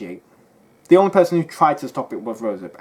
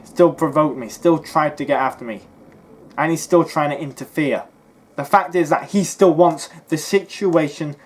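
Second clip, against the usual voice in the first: angry rant; 3 semitones higher, 4 dB louder than usual. Real, not acted.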